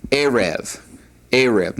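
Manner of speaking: "erev" as a teacher models it, falling at the end; Hebrew pronunciation demo. Shown as a demonstration. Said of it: "is pronounced erev".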